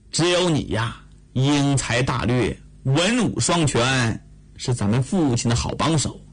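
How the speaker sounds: low, earnest admonishing of a younger brother; stern sister's lecture. Acted. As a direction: lay down the law firmly.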